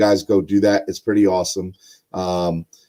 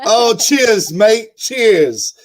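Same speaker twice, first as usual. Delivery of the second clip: high, playful mock British accent; 11 semitones higher, 4 dB louder, much slower than usual. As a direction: toss off a cheeky imitation of a British accent. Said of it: "'cause you got that awesome accent".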